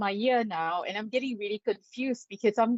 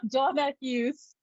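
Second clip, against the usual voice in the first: laughing through the name. Real, not acted. Laughing at own throat trouble.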